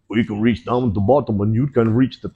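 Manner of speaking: attempted Brazilian accent that comes out Russian. Coach imitating a jiu-jitsu teacher, botched Russian accent. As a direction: put on a rough Russian accent. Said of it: "well, that's a Russian accent".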